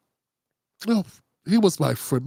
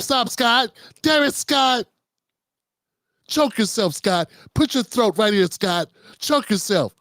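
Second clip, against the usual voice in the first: lightly voiced flustered TV host scolding a guest; a hint of a frazzled anchor repeating the name to cut him off; Abby Phillip impression; slower than usual. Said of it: "Y'all like my Abby Phillip impersonation".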